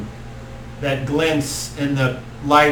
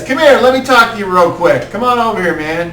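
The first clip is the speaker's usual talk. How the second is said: slightly higher, louder stoner voice; stoner druid; 7 semitones higher, 6 dB louder, faster than usual. Acted. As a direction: beckon a friend over casually. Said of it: "he says".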